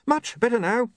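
high, hasty exclamation; mild shout. A narrator's reading. William refuses the kiss of life, high half shout. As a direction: call it out hastily to fend him off. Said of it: "he shouted".

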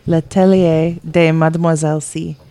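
badly faked French accent; terrible French accent. Shown as a demonstration. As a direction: read the title in an amateurish French accent. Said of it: "That's my terrible French accent".

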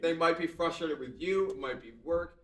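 mock British accent. Partner getting frustrated, a light mock British accent. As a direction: slip into a hint of Peppa Pig British. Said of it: "they're going full British".

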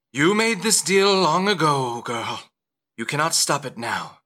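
stern patron laying down a deal; Dolores. Acted. Dolores to a pleading mother in the rain, stern. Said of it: "she says".

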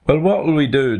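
high-pitched, puzzled animal voices; perplexed. Acted. Stuck animals ask each other, perplexed high voice. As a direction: ask it in mild mock perplexity. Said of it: "looked at each other in perplexity".

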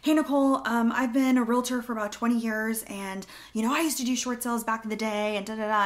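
student booking a call who overexplains, mildly mocked; mock caller. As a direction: imitate a student listing credentials. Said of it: "you guys put yourself on my calendar".

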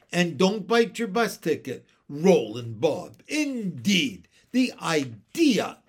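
loud, indignant huff; scold, then scoff in disbelief; offended scolding. A narrator's reading. Mary Poppins closing the argument, offended scolding. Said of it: "was obviously very offended".

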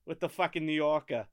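lightly put-on New York accent. Shown as a demonstration. Prompting a friend to do a New Yorker, New York accent. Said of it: "you just gotta go".

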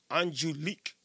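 careful, low French-style Angelique; French-accented name, low and soft; French pronunciation. Shown as a demonstration. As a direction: try Angelique with a French accent, rising at the end. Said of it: "French pronunciation".

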